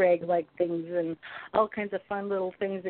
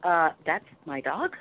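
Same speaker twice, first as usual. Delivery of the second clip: lightly voiced puzzled man, halting; baffled husband; 2 semitones higher than usual. Husband sees his dog walking, baffled. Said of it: "And he's like".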